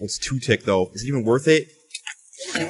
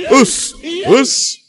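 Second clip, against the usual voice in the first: excited shout; 13 semitones higher, 7 dB louder than usual. Real, not acted. Celebrating a kill.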